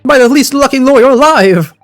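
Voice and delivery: high, fretful lament; whiny client voice. Acted. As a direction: wail about his bad luck. Voicing the panicky client character.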